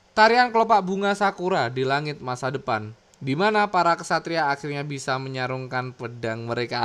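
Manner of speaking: story narration, falling phrase endings; narrator reading. A narrator's reading. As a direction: read it as the tale's closing narration. Reads the manga's narrator text. (gaya narator membacakan penutup kisah)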